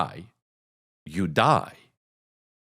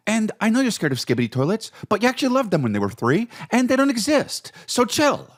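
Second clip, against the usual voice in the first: exasperated dad; 9 semitones higher, faster than usual. Retold or imitated. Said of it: "you're like".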